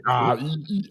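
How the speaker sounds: mock vocal tune-up noises; imitated lawnmower tuning up. Recalling him going through every region, imitated tune-up noises. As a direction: imitate an actor revving up an accent. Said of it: "like a lawnmower being tuned up".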